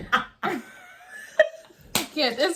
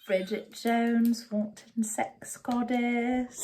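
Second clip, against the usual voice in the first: Renee Zellweger impression; 3 semitones lower, 4 dB quieter, slower than usual. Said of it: "my Renelle Zellweger voice".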